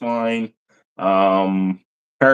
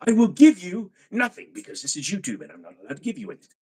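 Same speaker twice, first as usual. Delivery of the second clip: hammed-up shady pitchman, pitched higher; Crazy Eddie pitchman; 5 semitones higher than usual. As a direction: sell it like a sleazy late-night huckster. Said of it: "Crazy Eddie".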